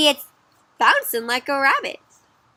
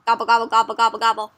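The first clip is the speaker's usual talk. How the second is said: gobbling noises; 5 dB louder, faster than usual. Acted. Imitates a duck eating.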